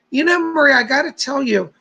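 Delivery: talking through hiccups; hiccuping between words. Real, not acted. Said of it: "pardon me, I'm hiccup".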